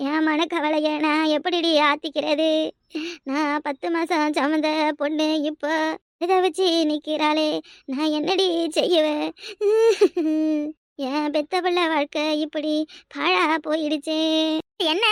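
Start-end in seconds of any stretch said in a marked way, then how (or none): 3.7-14.2 crying lament. Acted. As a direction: drag each word out in grief. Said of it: "சும்மா தேவையில்லாத கத்திக்கிட்டு கிடக்காதீங்க".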